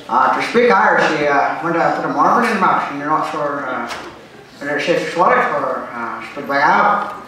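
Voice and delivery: Irish accent demo, words rolled round a marble. Shown as a demonstration. Comic showing the audience how to speak Irish, Irish accent. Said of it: "start off with Irish".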